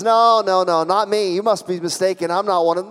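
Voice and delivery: acted protest, mildly heated; insistent denial. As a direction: brush off the accusation firmly. Acting Peter's first denial.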